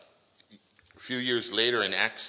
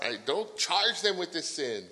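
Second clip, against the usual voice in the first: 1 loud slow prayer; 8 semitones higher, slower than usual. Shown as a demonstration. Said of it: "He, he yelled that in a loud voice".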